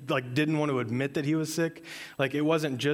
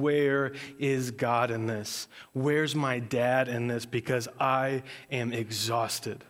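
weary lament; slower than usual. Retold or imitated. Worn-out believer's lament voiced.

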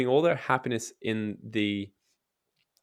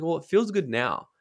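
mock excuse; 6 semitones higher than usual. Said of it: "all these things that's like".

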